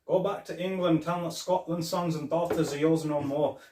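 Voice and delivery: mock-heroic film quote, proclaimed with swagger; Mel Gibson in Braveheart. Host quoting Braveheart to co-host, mock Scottish battle cry. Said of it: "Mel Gibson in Braveheart".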